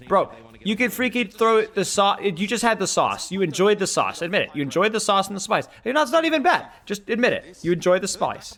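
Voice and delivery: a lightly put-on Australian accent, teasing; casual Aussie twang slipping out while mocking a friend. Streamer teasing chat about chicken in a light Australian accent. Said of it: "the Australian accent just kinda popped out there".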